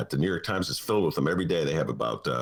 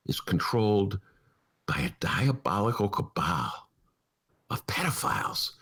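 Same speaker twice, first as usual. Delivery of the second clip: mock sinister. Spooky conspiracy pitch.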